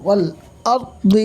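والأرض with a rounded, heavy r, lips rounded. Shown as a demonstration. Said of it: "মুখটা গোল করে করবেন".

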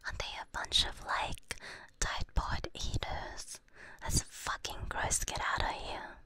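breathy unvoiced whisper throughout. Real, not acted. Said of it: "I have to whisper".

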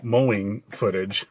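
stumbling over words; halting, tripping speech; stutter. Real, not acted. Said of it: "like, stuttering there".

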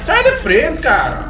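high frantic yell; panicked shout. Real, not acted. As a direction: shout it while fleeing in panic. Fleeing, yelling at obstacle.

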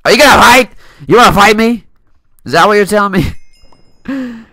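loud, high mock taunt; playful you-wanna-fight taunt; mock challenge. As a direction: call him out like a tough guy. Mock taunting an opponent in game.

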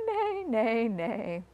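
horse neighing. Retold or imitated. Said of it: "horse saying".

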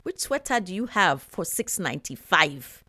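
light put-on Nigerian accent; a hint of Nigerian accent. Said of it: "this bad Nigerian accent".

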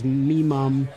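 "me mom" with my said as "me"; British "me mom". Shown as a demonstration. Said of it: "You should say me mom".

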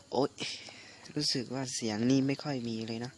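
hoarse, voice half gone from a cold; weak hoarse voice. Real, not acted. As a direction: speak with a sick, hoarse throat.

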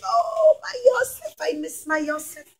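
high, sighing lament for a lost son; a grieving father's high, fading sigh; grieving old father. Acted. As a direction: mourn him softly and high. Sad father Yaakov voiced.

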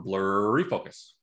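drawn-out, stretched "blurry"; imitated autofocus blur. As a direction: stretch "blurry" like a camera hunting focus. Acting out camera losing focus.

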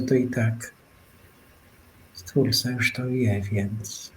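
soft, hushed, unhurried musing; quiet radio meditation voice; gentle spiritual reflection. Acted. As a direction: speak softly, as if not to break the silence. Host softly guides listeners inward.

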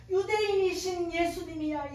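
loud, excited exclamation of discovery; awed recognition. Retold or imitated. Woman realizing who stands before her, awed recognition. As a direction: proclaim it loudly, amazed.

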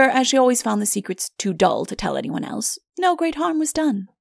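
ordinary delivery, nothing marked

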